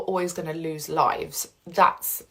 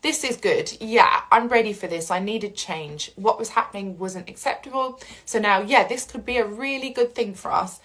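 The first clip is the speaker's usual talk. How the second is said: upbeat positive; 3 semitones higher than usual. Retold or imitated. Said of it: "a positive point in the process".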